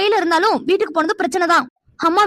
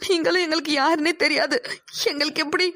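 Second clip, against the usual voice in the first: crying; 4 dB quieter than usual. Acted. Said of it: "நீ அழாத".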